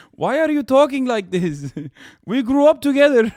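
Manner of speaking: Ahmed baffled by his buddy's new hustler talk; incredulous friend. Acted. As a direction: ask it like you can't believe your friend. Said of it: "Ahmed's like".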